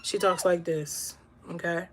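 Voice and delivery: hushed, low impression of the guest's speaking voice; imitating her low voice. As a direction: drop the voice way down to mimic her low tone. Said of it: "Her toned voice is, like, really low".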